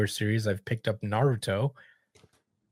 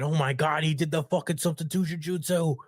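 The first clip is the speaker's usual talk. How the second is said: mock amazement; 6 semitones higher than usual. Sasuke voiced freaking out.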